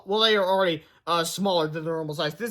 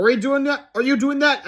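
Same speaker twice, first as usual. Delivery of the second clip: excited high voice; 8 semitones higher, 5 dB louder than usual. Acted. Characters puzzled in flight.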